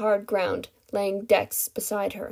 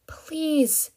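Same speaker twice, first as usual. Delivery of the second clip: high, drawn-out begging; desperate plea; 6 semitones higher than usual. A narrator's reading. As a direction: plead with the last hope. Captive begs again.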